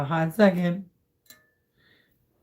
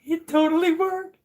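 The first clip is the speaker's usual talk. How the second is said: excited; 13 semitones higher, 4 dB louder than usual. Real, not acted. Success after a tense pour.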